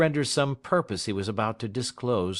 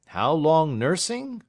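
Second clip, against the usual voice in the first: higher, louder and slow, weighing the word; Snitchey mulls it over aloud, pitched up; Snitchey repeating; 8 semitones higher, 7 dB louder, slower than usual. Acted. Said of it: "repeated Snitchey".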